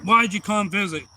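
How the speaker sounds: lightly acted curious child; child asking Santa. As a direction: ask it like an eager kid. Retelling child questioning Santa.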